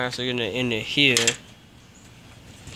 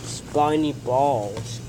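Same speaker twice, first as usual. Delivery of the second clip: slow drawn-out; much slower than usual. Real, not acted. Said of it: "That did not sound right".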